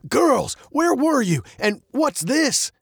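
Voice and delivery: put-on a worried father finding the girls; captain running to the girls, relieved and puzzled.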